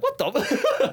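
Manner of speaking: retold outrage collapsing into laughter; high, cracking up mid-word; breaking into laughter. Telling friend about the covid insult, breaking into laughter.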